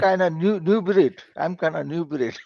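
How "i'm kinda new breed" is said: chuckling through the words; laughing. Real, not acted. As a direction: laugh it out softly. Caller laughs at own phrase.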